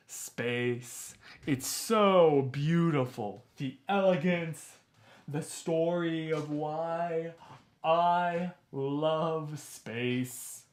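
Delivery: slow breathy dramatic reading; overly dramatic voiceover; dramatic narrator. Acted. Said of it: "That was the most millennial thing".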